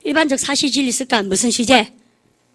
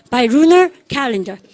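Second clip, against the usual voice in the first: slow choral model; 4 dB louder, much slower than usual. Shown as a demonstration. Teacher leads the class in repeating, very slow. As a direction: stretch every word out very slowly. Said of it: "By lunar 시작".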